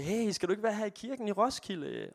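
high, lightly voiced pastor asking; pastor's question. Pastor Simon inviting him to stay, high and light. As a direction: lift it up high, like a friendly nudge. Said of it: "som sagde".

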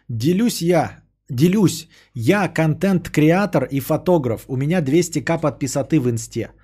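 slow, pompous self-important voice; mock pompous blogger. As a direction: puff yourself up, slowly. Mocking blogger's self-description.

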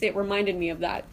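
usual speaking voice

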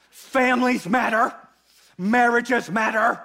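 lightly voiced enthusiastic pastor, half laughing; mock pastor. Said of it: "everyone who's looking through this lens goes".

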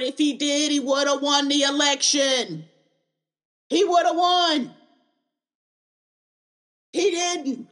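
rising to a shout on he woulda won; building shout. Real, not acted. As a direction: build from firm to a full yell. Building rant about election.

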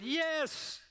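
put-on older man shouting his answer back; retold scream back. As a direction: fling the yes back across the room. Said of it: "screams back to him".

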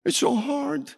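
very high, thin mock whine; plaintive question. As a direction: whine it high like a put-upon complainer. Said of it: "this was the question".

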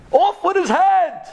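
high, loud royal command; furious order. Acted. Angry king ordering the man's execution, furious. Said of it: "The king got so angry".

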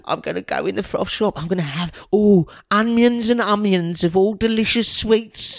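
lightly voiced excited little boy. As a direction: gush like a kid with pocket money. Plays eager little boy customer.

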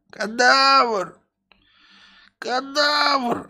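high, loud bellow; master calling out. Acted. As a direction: shout for the servant from afar. Master shouting for servant.

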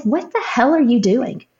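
mock-confront God as if arguing with a husband; wife recalling cursing at God in frustration; retold angry demand. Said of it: "talking to him like I would Josh if I was angry".

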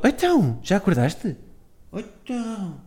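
put-on high, breathy baby talk to the puppy; dog voice. Shown as a demonstration. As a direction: coo it like talking for the dog. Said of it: "fazer esta voz de cão que eu estou a fazer".

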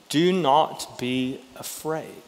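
"Do not be afraid." slow and soft, a calm hush; voice of God. Retold or imitated. Preacher voicing God's words to frightened disciples, slow and soft. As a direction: lay it down gently and slowly, like heaven speaking. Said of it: "what the voice came down and said".

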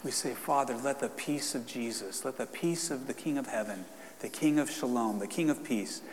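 prayer. Acted. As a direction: pray over them with fervor. Leads a prayer.

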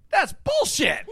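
high, loud mock heckle; heckling shout. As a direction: yell it from the wings, half laughing. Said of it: "Frankie's voice".

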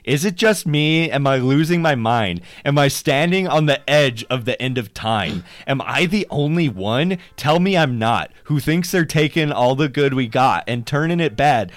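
loud, hammed-up recital of the lyrics; mocking lyric reading. Shown as a demonstration. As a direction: read it out like a bad patriotic anthem. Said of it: "I'll read them really fast".

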